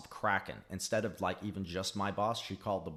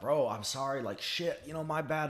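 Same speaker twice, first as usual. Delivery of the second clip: apologetic plea; 5 semitones higher than usual. Retold or imitated. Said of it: "And I was like".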